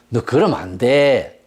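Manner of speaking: slow, low, half-hearted telling-off; feeble mild rebuke. Retold or imitated. Priest Eli weakly correcting his sons, mild and slow. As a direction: imitate a too-lenient father gently scolding. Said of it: "이런 수준이에요".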